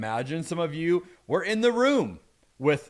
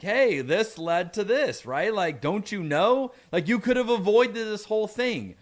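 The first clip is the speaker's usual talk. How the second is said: lightly voiced clueless know-it-all, pitched up; a little dense; 5 semitones higher than usual. Preacher imagines someone lecturing a woman in labor, mildly dense. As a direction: point out the obvious, a touch higher. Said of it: "someone maybe a little dense might think".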